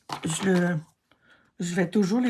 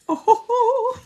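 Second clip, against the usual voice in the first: very high laughing oh oh oh; delighted laugh; 5 dB louder, slower than usual. Real, not acted. Delighted at the result.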